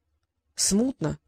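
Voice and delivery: slow, soft admission; a drawn-out murmured smutno; hesitant admission. Acted. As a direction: admit it slowly, unsure. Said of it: "признался Трикс".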